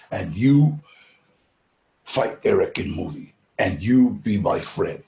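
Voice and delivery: put-on Russian accent. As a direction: lightly do the Russian director, unhurried. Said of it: "a Russian aristocrat, a guy named Andrei Konchalovsky".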